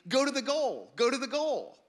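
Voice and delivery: high, loud shout from the stands; parent yelling. Retold or imitated. Parent screams at player from the far side, loud yell. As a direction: urge the kid on from the sideline.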